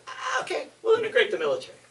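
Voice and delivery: mock surrender, high and laughing; laughing give-in. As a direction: laugh it off while caving in. Truman giving in, laugh heard.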